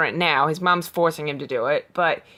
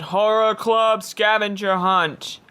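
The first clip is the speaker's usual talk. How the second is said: slow spooky reading; 3 semitones higher, slower than usual. A narrator's reading. Reads list dramatically.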